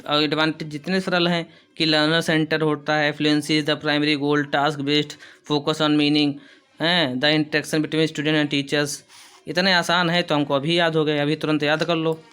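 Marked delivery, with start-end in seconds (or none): 3.2-6.3 slow, careful dictation pace, said twice; teacher dictating notes. Shown as a demonstration. Teacher recapping points for notes. 7.1-9.0 slow, careful dictation pace, said twice; teacher dictating notes. Shown as a demonstration. Teacher recapping points for notes.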